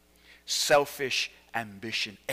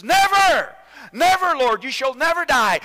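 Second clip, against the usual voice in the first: high, loud insistent cry; Peter's protest; 11 semitones higher, 10 dB louder than usual. Acted. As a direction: refuse outright, loudly. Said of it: "And Peter says".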